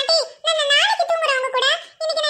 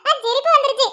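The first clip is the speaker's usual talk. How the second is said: laughing along. Real, not acted. Baby laughs, she laughs along.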